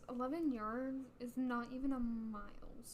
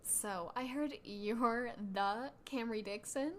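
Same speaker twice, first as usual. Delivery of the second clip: sneering fake sweet; slower than usual. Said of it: "my Mean Girl voice".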